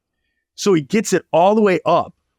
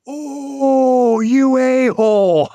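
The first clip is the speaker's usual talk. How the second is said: cursing owner; 8 semitones higher, much slower than usual. Retold or imitated. Owner cursing at the kid after the second crash, mock outburst. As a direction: play a man cursing as his car drops. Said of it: "the guy goes".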